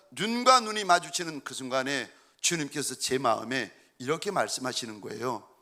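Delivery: ordinary talk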